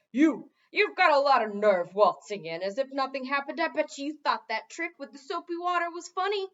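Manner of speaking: loud, aggrieved gargoyle yelling; angry shouting. A narrator's reading. Gargoyle shouting at the king on his return. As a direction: shout him down for his nerve. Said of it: "began shouting at him".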